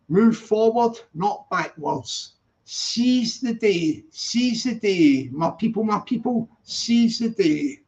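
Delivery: slow, drawn-out motivational rallying call; slow pep talk. Acted. Streamer rallying his viewers, slow motivational speech. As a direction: rouse your people, slowly and grandly. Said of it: "That'll gee you up".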